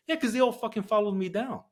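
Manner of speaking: high, amused, half-laughing. Real, not acted. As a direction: laugh through the punchline. Laughing at the memory.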